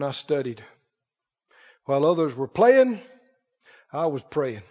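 low, hushed, weighty mock confession; mock self-important testimony. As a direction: play someone solemnly milking their sacrifice, with pauses. Mocking people boasting of their sacrifice.

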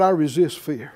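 firm lead line for a group to echo; spoken declaration. Shown as a demonstration. Preacher leads class to repeat, firm declaration. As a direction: declare it out loud, falling at the end. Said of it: "Said out loud".

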